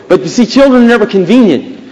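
forceful sermon punchline; emphatic preaching. Real, not acted. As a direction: press the point home firmly.

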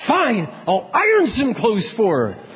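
high, drawn-out grudging concession; mildly fuming, stretch the words out high; grudging resolve. Retold or imitated. Fuming husband resolving to do a chore for his wife, grudging. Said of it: "I was fuming inside".

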